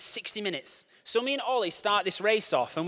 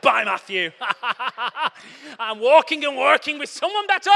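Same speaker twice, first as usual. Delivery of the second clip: higher, louder, laughing gloat; laughing taunt; 7 semitones higher, 7 dB louder than usual. Retold or imitated. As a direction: tease him through laughter as you pass. Taunting the pacer while laughing.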